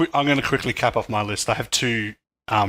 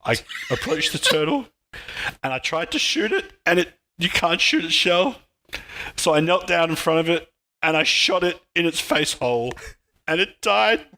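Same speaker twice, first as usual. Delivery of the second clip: mock-tearful, higher-pitched confession in halting phrases; choked up; 5 semitones higher than usual. Podcaster confessing to killing a turtle, playfully choked up. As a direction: struggle through it, hammed-up grief with pauses. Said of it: "this is hard for me".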